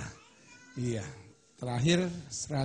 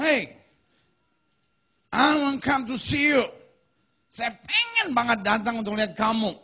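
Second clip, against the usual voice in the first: Paul pouring his heart out; 8 semitones higher, 5 dB louder than usual. Pretend. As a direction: voice Paul longing to visit, a touch of yearning. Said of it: "Paulus curhat".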